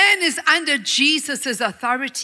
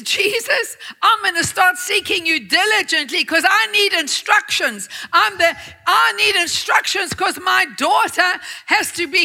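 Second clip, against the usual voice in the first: raised, pleading cry to Jesus; desperate plea; 3 semitones higher than usual. Retold or imitated. Father praying for his sick daughter, pleading cry. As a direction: beg Jesus for help, voice lifted.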